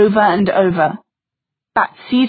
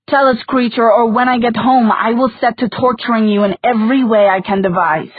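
threatening; 3 semitones higher than usual. Acted. Threatening the caged demon.

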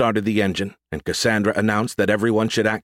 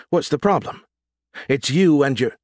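angry; 6 semitones higher than usual. Acted. Quarrel in the car.

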